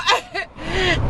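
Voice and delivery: a burst of real laughter; giggling at the thought of being perfect; laughing. Real, not acted. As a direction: laugh it out, high and breathy. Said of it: "Excuse me while I have a good laugh".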